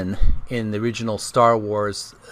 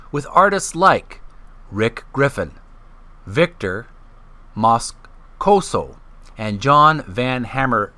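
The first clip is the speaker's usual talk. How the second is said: reading aloud. Acted. Host reads an art-history book to his channel's viewers, measured reading voice. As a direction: read the passage out for listeners.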